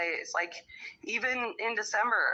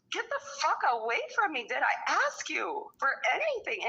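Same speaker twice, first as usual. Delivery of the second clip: fed-up retort; 5 semitones higher than usual. Real, not acted. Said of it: "retorting to ex".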